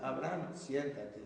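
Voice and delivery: slow, even and unbothered: Abraham, siéntate; calm neutral command. Shown as a demonstration. Teacher calmly telling a restless boy to sit, slow and neutral. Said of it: "Una frase sencilla y clara, de tono de voz neutra, tranquila".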